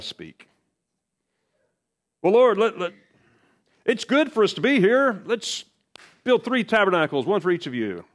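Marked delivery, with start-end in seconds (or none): 2.2-8.0 flustered Peter. Retold or imitated. Peter blurting awkwardly at transfiguration.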